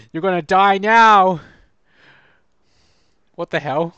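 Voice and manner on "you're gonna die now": slow, louder evil taunt; mustache twirling villain. Acted. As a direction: gloat like a cartoon villain. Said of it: "I had to be evil".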